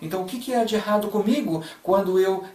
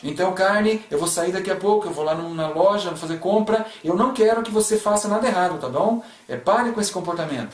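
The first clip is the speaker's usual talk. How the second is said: scolding parent; 3 semitones higher than usual. Pretend. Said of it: "should I tell the flesh to stop misbehaving?".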